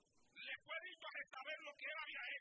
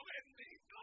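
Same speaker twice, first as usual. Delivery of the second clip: timid captain; 14 semitones higher, 3 dB louder, slower than usual. Acted. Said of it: "este fue bien bajito".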